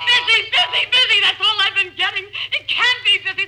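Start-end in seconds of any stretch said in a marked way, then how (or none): 0.0-1.2 frantic, rising exasperation; exasperated repetition. Acted. Invalid wife pleading with operator, frantic. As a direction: spit out each busy in frustration.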